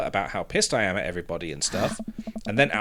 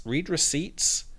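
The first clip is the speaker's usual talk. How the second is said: confused; 5 semitones higher, 3 dB quieter, slower than usual. Acted. Dad puzzled by unknown term.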